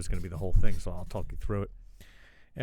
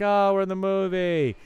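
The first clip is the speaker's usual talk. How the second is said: higher, slow, wide-eyed wonder; excited awe; 10 semitones higher, 4 dB louder than usual. Retold or imitated. Fan seeing BB-8 in the ride, slow excited awe. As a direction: marvel slowly like a kid on the ride. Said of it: "It's like".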